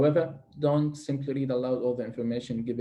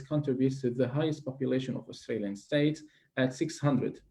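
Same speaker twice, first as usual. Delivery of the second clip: model answer reading; 3 dB quieter than usual. Shown as a demonstration. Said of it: "have a quick demonstration for us".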